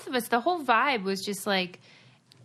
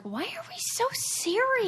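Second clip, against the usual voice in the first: incredulous; 13 semitones higher than usual. Retold or imitated. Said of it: "and I'm like".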